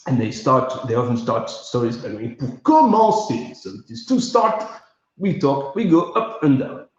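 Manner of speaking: Brussels accent bobbing up and down; Belgian French accent. Shown as a demonstration. Showing how Brussels speakers start stories, Belgian French accent. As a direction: demonstrate a Belgian storyteller's opening in accent. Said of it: "that is my guide to Belgian accents".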